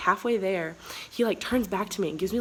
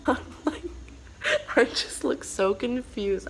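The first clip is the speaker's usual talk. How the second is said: says it through a laugh; giggling while admitting she looked lost; 3 semitones higher than usual. Real, not acted. Laughing as she tells the viewers she was confused.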